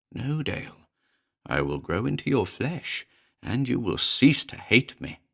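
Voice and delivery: high, cold little creature voice; a small demon taunting coldly; a lightly voiced cold imp. Demon replies softly.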